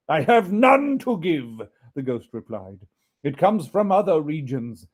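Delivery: weary solemn ghost. Acted. Ghost answering Scrooge, weary and solemn. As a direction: mourn the endless journey.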